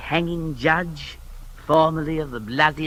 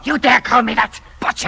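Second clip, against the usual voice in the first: louder, sharp offended retort; indignant outrage; 5 semitones higher, 6 dB louder than usual. Acted. Insulted man rounds on the judge in loud outrage. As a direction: fling the insult straight back at him. Quarrel between Oates and Jeffreys.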